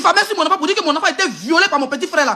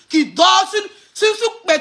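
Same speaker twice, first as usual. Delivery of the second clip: angry shout; 4 semitones higher, 3 dB louder, much slower than usual. Real, not acted. Angry livestream insult tirade.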